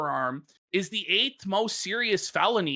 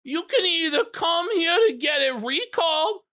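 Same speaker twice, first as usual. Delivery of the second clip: quoting the stern judge; 8 semitones higher than usual. Retold or imitated. Judge voiced in retold story.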